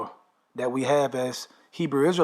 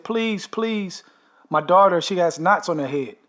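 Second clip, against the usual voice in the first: retold desperate plea; 3 semitones higher than usual. Mother begs for her daughter, high mock plea. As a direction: beg for the child, voice pitched up. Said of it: "already in there crying".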